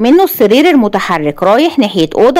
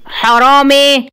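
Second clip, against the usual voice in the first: long drawn-out, higher cry of alarm; calling out loudly; 5 semitones higher, much slower than usual. A narrator's reading. Asem shouts after fleeing Sayed, drawn-out call. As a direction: cry out "thief", stretching it. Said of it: "وقال بعلو صوته".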